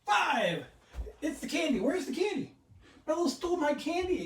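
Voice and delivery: high, laughing mock outrage. Real, not acted. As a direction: laugh through the words. Candy stolen, laughing outrage.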